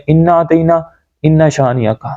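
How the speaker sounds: "انا اعطینا، انا شانیہ کا" run together with short vowels; quick careless misreading of "انا اعطینا، انا شانیہ کا"; common recitation mistake. Shown as a demonstration. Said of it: "سب سے پہلے اس غلطی کو".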